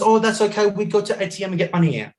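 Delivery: high, breezy imitation of the driver; taxi driver. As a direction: imitate a cabbie brushing the problem aside. Retold driver offering a solution.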